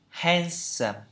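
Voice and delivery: handsome with an American "a" toward "e"; American pronunciation. Shown as a demonstration. Teacher echoing the American dictionary audio, American accent on handsome. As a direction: copy the American handsome, "hen-sum". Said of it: "Anh Mỹ thì sao?".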